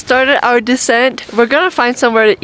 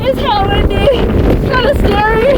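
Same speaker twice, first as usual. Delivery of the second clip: excited; 13 semitones higher than usual. Real, not acted. Windy summit, shouting over wind.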